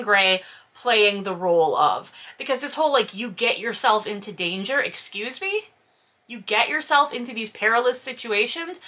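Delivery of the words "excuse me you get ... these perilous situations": incredulous. Real, not acted. Incredulous reaction to quote.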